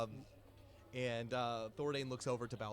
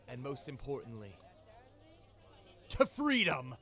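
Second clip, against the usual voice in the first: louder, hearty pirate toast; best pirate impression; 2 semitones higher, 4 dB louder than usual. Captain toasts the crew, hearty pirate voice. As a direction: raise a glass like a proud pirate. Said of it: "gives his best pirate impression".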